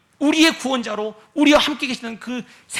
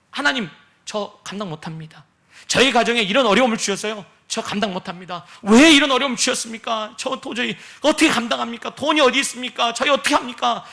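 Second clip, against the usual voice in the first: mock wailing. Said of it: "울고불고 난리를 치는".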